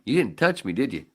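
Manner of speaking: loud accusing question; loud challenge. Retold or imitated. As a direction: confront the fielder loudly. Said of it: "went to him and went".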